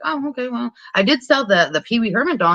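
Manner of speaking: lightly acted "so what" tone; dismissive. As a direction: imitate someone airily waving off bad news. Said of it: "Beverly's very dismissive of it".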